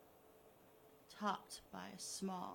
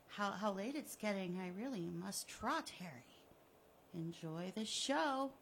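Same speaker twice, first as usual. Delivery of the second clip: gloating villain. Acted. Killer taunting the buried Harry, smug and mocking. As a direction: taunt him like a cat with a mouse.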